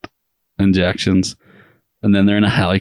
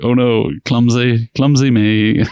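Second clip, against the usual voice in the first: slow, higher faux-innocent whine; mock clumsy; 4 semitones higher, slower than usual. Helen dropping the Uzi, slow and faux innocent. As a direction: drag it out, playing the ditz. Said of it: "her being like".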